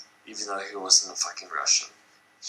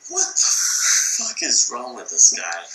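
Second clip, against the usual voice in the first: disbelief; 5 dB louder, slower than usual. Retold or imitated. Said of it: "you're just like".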